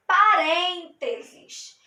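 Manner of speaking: parênteses drawn out slowly; slow answer. Shown as a demonstration. Teacher slowly naming the parentheses for students. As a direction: stretch out parênteses for the class. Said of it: "São os".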